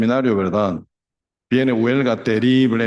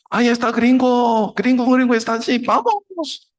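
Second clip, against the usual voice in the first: mob shouting; 12 semitones higher than usual. Retold or imitated. Filipino mob spots the missionary, high excited shout. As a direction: call out like a mob spotting its target.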